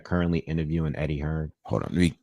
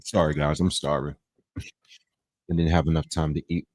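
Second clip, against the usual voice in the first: wolfing down food. Real, not acted. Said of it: "Trying to get the food in".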